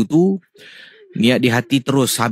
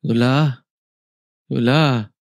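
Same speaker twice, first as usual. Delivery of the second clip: aunt calling; slower than usual. Acted. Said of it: "tiba-tiba saya dengar".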